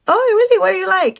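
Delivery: high-pitched mock doubting; mimicked disbelief. Date quizzing her on the restaurant, mimicked disbelief. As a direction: imitate a sceptic testing someone, pitched well up. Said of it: "as if he didn't believe me".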